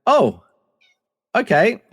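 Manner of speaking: a light, rising gasp of recognition; half-hearted starstruck double take; mock surprise. Spotting the actor in the hotel lobby, mock surprised.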